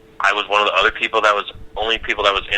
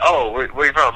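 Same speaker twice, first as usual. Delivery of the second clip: chipper greeting; 4 semitones higher than usual. Retold or imitated. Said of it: "was like".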